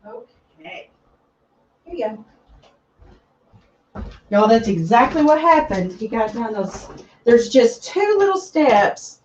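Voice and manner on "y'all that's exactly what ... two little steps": winded from running; breathless after running upstairs; out of breath. Real, not acted. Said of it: "I'm out of breath now".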